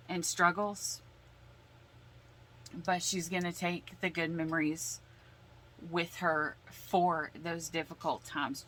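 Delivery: ordinary talk, nothing marked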